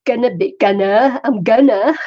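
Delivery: dazed and woozy from pain relief; groggy on painkillers. Real, not acted. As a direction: talk like the painkillers just kicked in. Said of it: "Can you tell I took some pain relief?".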